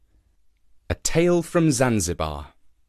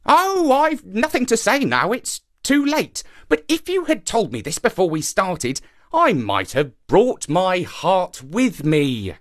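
crafty monkey, regretful; 7 semitones higher than usual. A narrator's reading. Monkey tricks shark about his missing heart, feigned regret. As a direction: feign regret in a high character voice. Monkey figure in narrated tale.

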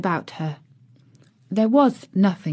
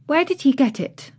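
Mary asking; 7 semitones higher than usual. A narrator's reading. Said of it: "asked Mary".

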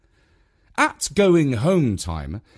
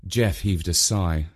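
ordinary delivery

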